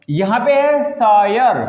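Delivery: शायर said slowly as "shaa-yer"; शायर: stretch the "aa-yer" sound; slow example word. Shown as a demonstration. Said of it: "okay". (शायर धीरे और साफ़ बोलिए)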